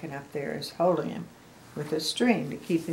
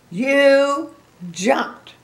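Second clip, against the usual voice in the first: higher, louder flat statement; Gerald, flat fact; 9 semitones higher, 11 dB louder than usual. A narrator's reading. Reader voicing Gerald to Piggy, higher and louder. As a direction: state it bluntly as the elephant. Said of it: "And Gerald says".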